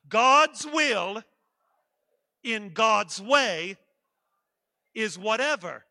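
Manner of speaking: loud rallying chant, long gaps between phrases; really loud. Shown as a demonstration. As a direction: belt out each phrase for them to repeat. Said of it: "Say it one more time".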